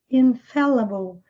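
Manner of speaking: "Infallible" slowly, third syllable a neutral uh; schwa sound. Shown as a demonstration. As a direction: model "Infallible" slowly with a schwa after FAL. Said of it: "Esse E virado de cabeça pra baixo".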